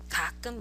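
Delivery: 가끔 said with deliberate emphasis; stress on 가끔. Shown as a demonstration. Teacher repeating the emphasised word to her students, stress on 가끔. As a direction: press on the word 가끔. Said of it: "I'm emphasizing that with pronunciation".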